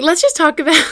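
high, loud, words bubbling with laughter; laughing through words. Real, not acted. Restarting her happy-list topic, she talks through laughter, high and loud. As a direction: try to talk while still giggling.

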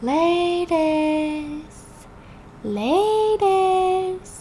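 eerie whisper. Retold or imitated. Unseen voice calling to Teddy, eerie and high. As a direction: lure him into the dark ward. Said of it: "whispers of someone whispering".

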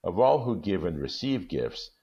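measured storytelling read; calm storybook reading; story narration. A narrator's reading. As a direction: tell it gently, like reading a classic aloud. Reads the story aloud.

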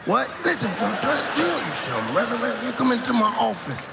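lightly voiced hustler, insistent; crackhead voice. Comic imitating an insistent crackhead, lightly voiced. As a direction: press the pitch, half-shouting. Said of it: "They always talking like this".

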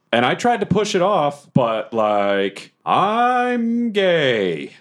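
halting character confession; mock-anguished, stretched phrases; Bobbert, awkwardly confessing. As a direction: build haltingly to a drawn-out admission. Bobbert confides in Alan.

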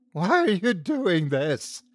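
high, drawn-out pleading yell; a slow, high cry, not full volume; mild yell. A narrator's reading. Victim yells at Hank mid-torture, a high, restrained yell. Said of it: "I yelled".

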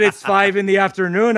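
lightly put-on Irish accent; a touch of mock Irish brogue; awful Irish accent. Dublin man correcting a tourist, awful Irish accent. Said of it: "for my awful accent".

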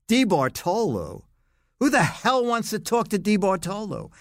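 high-pitched, indignant retelling of a boss's bark; mock exasperated phone voice; retold gruff boss on the phone. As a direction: act out an irritated man demanding who's calling. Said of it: "I hear a voice say".

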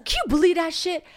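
high, loud indignant disbelief; outraged gossip. Retold or imitated. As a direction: spill the outrage to a friend. Retold outrage to friend.

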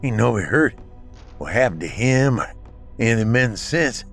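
slurred from a blow to the face; slurring. Acted. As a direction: slur the words, hurt and winded. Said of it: "slurring his words from a hit on the face".

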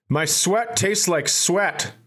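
a hint of a child's voice; quoted young nephew. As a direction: lightly imitate a little boy, unhurried. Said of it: "here is what, uh, my nephew said to me".

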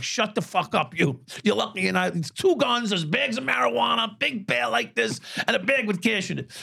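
snapping at him. Retold or imitated. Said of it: "I'm like".

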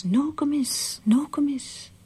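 high breathy whisper calling a name from the woods; faint calling whisper. Retold or imitated. Weak daughter calls to her mother from the woods, high whisper. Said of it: "she hears".

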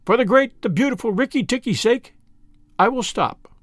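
high, bright-voiced chattering tailorbird; a proud bird praising its hero; excitable little bird. Tailorbird boasting about the mongoose's victory, high bird voice.

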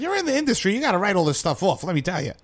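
put-on Jewish accent. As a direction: imitate the tax lady in a Jewish New York accent. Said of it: "That was my Jewish accent".

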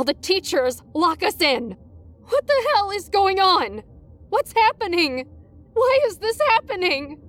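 high, rising panic; hysterical rambling. Acted. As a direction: spiral into hysteria. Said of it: "she yelled hysterically".

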